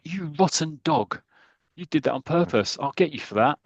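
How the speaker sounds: hammed-up indignation at a foul; lost temper. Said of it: "loses his temper".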